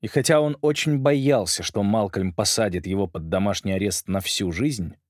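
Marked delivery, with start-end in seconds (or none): none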